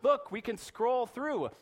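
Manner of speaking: high, loud, eager grandparent voice; imitating a gushing grandparent on a plane. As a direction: pester a stranger with photos. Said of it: "the grandparents are like".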